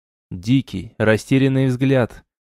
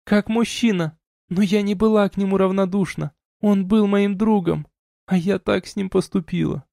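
lightly voiced woman, higher and subdued; raised voice, muted confession; confessing young woman; 9 semitones higher than usual. A narrator's reading. Elina grieving.

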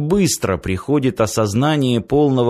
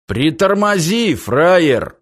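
tough stalker voice; 5 semitones higher, slower than usual. Acted. Stalker stops the giant.

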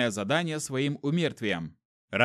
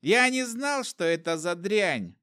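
much higher, stress on «Я», frightened denial; pleading trader; 5 semitones higher than usual. A narrator's reading. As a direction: beg in the old trader's voice. Trader's voice continues.

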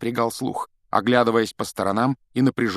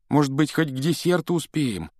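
hopeful; 6 semitones higher than usual. Acted. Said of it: "с надеждой".

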